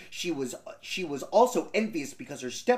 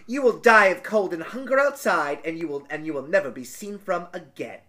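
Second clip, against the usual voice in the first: wicked stepmother. Acted. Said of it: "and thought".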